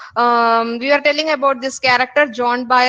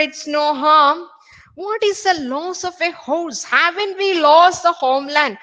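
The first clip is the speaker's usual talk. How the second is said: mock shout; 5 semitones higher than usual. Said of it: "very irritated and shouted".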